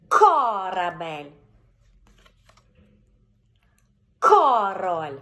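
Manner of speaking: Картина said very slowly, loud hard К at the start; повільно, з наголосом на К; slow, stressed first syllable. Shown as a demonstration. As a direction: stretch Картина slowly for the child. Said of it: "ми звертаємо на перший склад".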